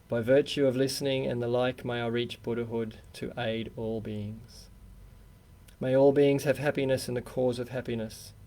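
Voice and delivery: measured, even-toned communal prayer; prayer recitation. Real, not acted. Buddhist society host leading the group in refuge prayer, measured recitation. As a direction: recite it steadily, phrase by phrase, for others to follow.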